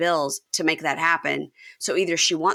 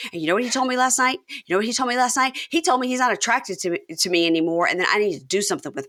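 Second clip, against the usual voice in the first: heated retelling; 4 semitones higher, faster than usual. Retold or imitated. Retelling Amber's heated confession to Puppy.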